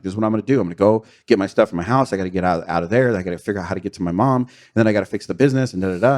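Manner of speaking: frantic rush. Retold or imitated. Retelling his frantic plan.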